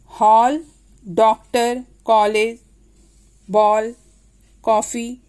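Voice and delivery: हॉल, डॉक्टर, कॉलेज, बॉल, कॉफ़ी with open rounded "aw"; each word firm and separate, open "aw" vowel; open English "aw". Shown as a demonstration. Teacher demonstrates English loanwords, open "aw" in each. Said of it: "इसका उच्चारण इस तरह से होगा".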